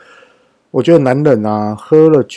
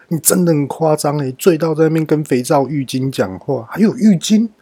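higher, exasperated retelling of her scolding; mock angry wife; 4 semitones higher than usual. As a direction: play the annoyed wife, voice climbing. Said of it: "莫妮卡又很生气的说". (模仿莫妮卡生气地抱怨)

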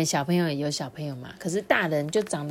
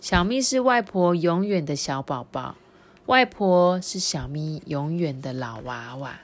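lively picture-book reading; story narration for children; 4 dB louder than usual. A narrator's reading. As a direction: tell it to small listeners with clear, lifted phrases. Reads the book's closing lines.

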